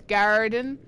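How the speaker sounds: garden with a rolled, fully sounded R; Irish garden. Shown as a demonstration. Explaining Irish speech to chat, garden with a strong R. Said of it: "they pronounce their R's".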